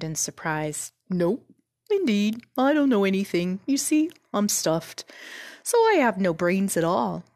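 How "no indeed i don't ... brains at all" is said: mildly sad scarecrow voice; a touch of sorrowful admission; sadly. Acted. Scarecrow admits to Dorothy he has no brains, mildly sad. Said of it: "he answered sadly".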